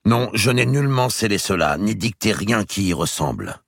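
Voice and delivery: earnest king. Acted. The king begging his brother to believe him, earnest. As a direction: insist you knew nothing.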